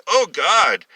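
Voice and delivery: high, loud cry of pleasure; voiced moan of a woman in passion. A narrator's reading. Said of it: "heard her moan loudly".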